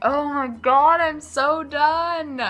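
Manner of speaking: loud, slow, fed-up sigh of a groan; exasperated plea. Retold or imitated. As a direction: roll your eyes and plead, drawn out. Exasperated reader addressing the heroine.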